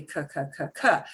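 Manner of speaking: "k" repeated as short hard consonants; hard C sound. Shown as a demonstration. Teacher recapping C L and C R, hard C sound. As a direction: say "k" like the C in cat. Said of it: "C L or C R".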